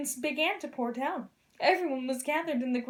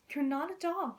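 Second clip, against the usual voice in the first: kind; 4 dB quieter than usual. Acted. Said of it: "he said kindly".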